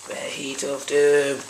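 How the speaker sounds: slow, drawn-out doom announcement; mock ominous. Friend echoes the cook's words, mock ominous. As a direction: stretch it out with pretend menace.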